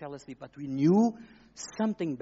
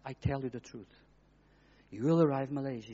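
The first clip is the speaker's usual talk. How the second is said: calm reassuring voice; 2 semitones lower than usual. Retold or imitated. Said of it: "But the Holy Spirit continued".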